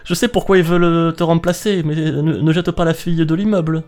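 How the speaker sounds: high-pitched sci-fi robot. Pretend. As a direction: keep the silly robot going. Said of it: "tu peux bien faire un accent de S F".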